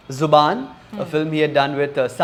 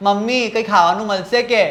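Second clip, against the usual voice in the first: put-on little lost boy with a Parsi accent; whining to mummy in a Parsi accent; Parsi-accented Gujarati, acting a five-year-old; 4 semitones higher, much faster than usual. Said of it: "can only speak in a proper Parsi accent".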